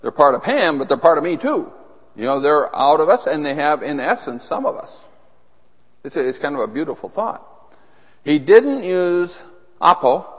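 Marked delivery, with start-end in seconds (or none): 4.4-5.1 whispered aside. Acted. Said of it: "whispered aside on essence".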